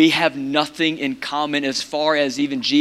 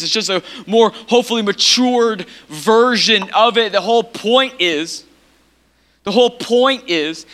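raised pitch, driving pulpit delivery; emphatic preaching; 6 semitones higher, 3 dB louder than usual. Real, not acted. Preacher explains citizens of heaven to congregation, emphatic preaching. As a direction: preach the point home with weight.

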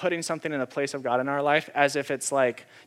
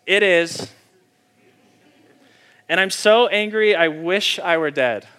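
Jonah yelling, louder and higher, slowing at the end; angry shout; 4 semitones higher, 9 dB louder than usual. Acted. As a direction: shout it like a sulking prophet who wants to die. Jonah's angry reply to God.

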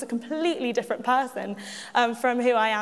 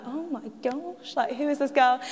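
hushed shocked gasp; 4 dB quieter than usual. Retold or imitated. Classmates staring at her, shocked.

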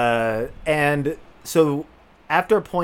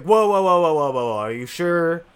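mock alarmed caution; 4 semitones higher than usual. Friends react to him taking acid, mock alarm. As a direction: imitate friends urgently checking you.

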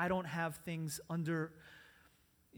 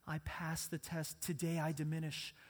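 soft and sad; 3 semitones lower, 6 dB quieter than usual. Acted. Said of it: "whose gentle voice was soft and sad".

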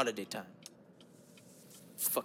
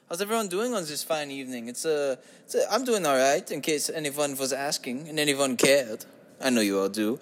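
put-on party-host voice. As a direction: ham it up like a cheesy club MC. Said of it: "Can't keep that voice going".

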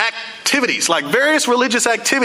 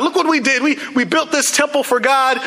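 higher, a smug boast about the temple; proud Israelites; 6 semitones higher than usual. Retold or imitated. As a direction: show off like someone very pleased with themselves. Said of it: "They became proud".

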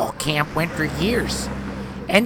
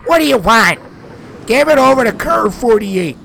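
irritated snap; 5 dB louder than usual. Acted. Cop snaps at radio.

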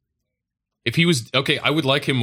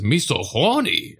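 mock Asian accent; slower than usual. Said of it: "he says".

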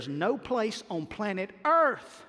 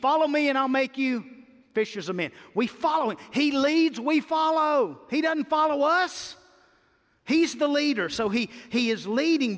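preaching; 6 semitones higher than usual. Real, not acted. Preaching climax on leading.

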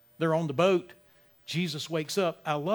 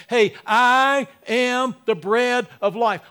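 proclaiming loudly; 5 semitones higher, 8 dB louder, much slower than usual. Acted. Jesus addresses the crowd.

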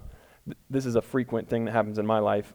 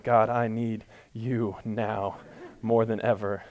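mock desperate plea; 3 semitones lower, 4 dB quieter, slower than usual. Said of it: "that desperate moment".

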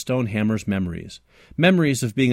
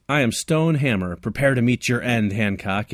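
Stone Hammer supervillain voice. Acted. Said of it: "in his best supervillain voice".

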